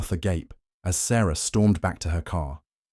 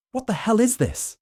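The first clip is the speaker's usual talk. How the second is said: sharp, high, angry outburst; spat out. A narrator's reading. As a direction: spit the words out in disbelief. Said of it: "she finally spat".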